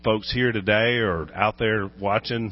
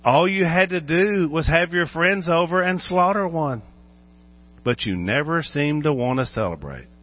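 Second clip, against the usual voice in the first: mock father's retort; 5 semitones higher than usual. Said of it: "he could have said".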